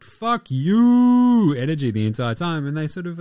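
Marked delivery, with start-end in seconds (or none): 0.0-1.5 higher, louder spat-out defiance; hammed-up fan taunt; mock defiant shout. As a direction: throw it out like a booing crowd. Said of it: "keep that just".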